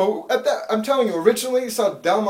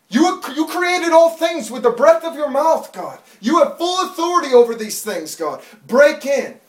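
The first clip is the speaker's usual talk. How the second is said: loud, high crying out to God; desperate prayer; 6 semitones higher, 6 dB louder than usual. Retold or imitated. Distraught father begging God to protect his family, shouting. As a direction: plead hard, much louder and higher.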